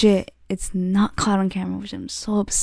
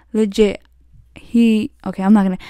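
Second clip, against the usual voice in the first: ordinary talk, nothing marked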